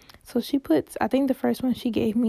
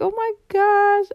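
high, slow, laughing oh my gosh; squealing laugh, pitched high; laughing disgust; 10 semitones higher, 5 dB louder, slower than usual. Real, not acted. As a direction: giggle through the disgust. Laughing at gross memory.

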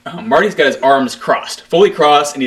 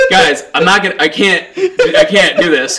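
laughing plea; 5 semitones higher than usual. Retold or imitated. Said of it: "I was like".

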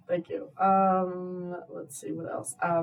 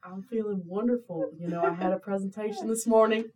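put-on playful Southern-accented reply; easygoing mock Southern accent; 2 semitones higher than usual. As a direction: answer with a light Southern twang. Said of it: "how are you feeling today in a Southern accent".

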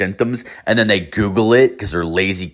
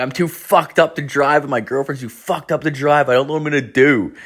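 retold panic; 6 semitones higher than usual. Panicking on the telehealth call.

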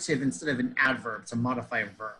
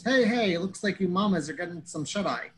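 mild mock bellow; 5 semitones higher than usual. Retelling Franz greeting the sleepy kittens, mock bellow. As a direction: imitate a big man's bellowed greeting. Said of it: "So he bellows".

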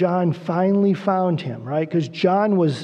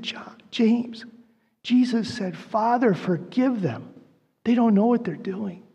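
tearful; 3 semitones higher, 4 dB quieter than usual. Retold or imitated. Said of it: "Probably with tears running down his face".

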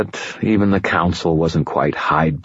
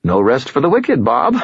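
cheerful; 7 semitones higher than usual. A narrator's reading. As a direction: say it with cheerful gusto. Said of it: "I said cheerfully".

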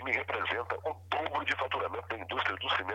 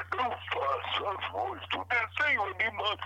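slow high cartoon voice; 9 semitones higher than usual. Shown as a demonstration. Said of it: "voz de desenho animado".

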